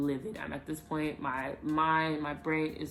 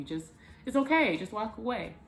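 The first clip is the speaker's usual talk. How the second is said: higher-pitched placating plea; retold placating; 5 semitones higher than usual. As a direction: talk someone down, pitched up. Retold calming of an angry boyfriend.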